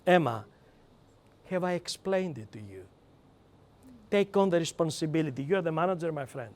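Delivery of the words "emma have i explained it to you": gentle correct way. Shown as a demonstration. Trainer showing a manager the right way to ask Emma. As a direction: ask softly, taking the blame yourself. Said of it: "the correct way of asking this question".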